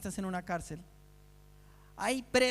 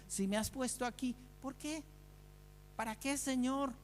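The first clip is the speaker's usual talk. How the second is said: much softer, a small questioning plea; hushed prayer; 3 semitones higher, 7 dB quieter than usual. Pretend. Believer in the prison asks God why, hushed plea. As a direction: ask God softly, almost under your breath.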